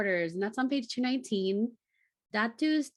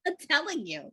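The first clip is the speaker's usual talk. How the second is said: I'm telling you through laughter; laughing; 6 semitones higher than usual. Real, not acted. Laughing with her cohost over her own mispronunciation. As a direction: laugh the words out.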